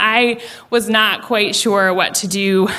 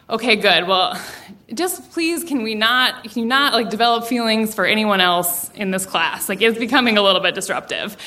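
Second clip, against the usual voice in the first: restrained plea. Retold or imitated. Teacher mom asks daughter to stop crushing in class, mildly weary. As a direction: ask carefully, with small hesitant pauses.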